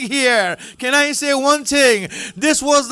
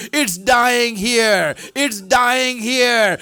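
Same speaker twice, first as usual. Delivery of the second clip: slow lament; 3 semitones lower, much slower than usual. Shown as a demonstration. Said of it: "repeated slowly".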